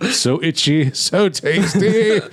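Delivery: high, drawn-out crazed-mother voice; mock crazed mother. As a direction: stretch it out high, hamming up the madness. Joking callback to the crazed mother.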